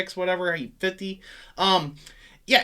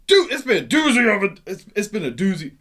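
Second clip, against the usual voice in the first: sarcastic; 4 dB louder than usual. Shown as a demonstration. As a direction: push it out loud and exaggerated. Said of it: "you're being sarcastic".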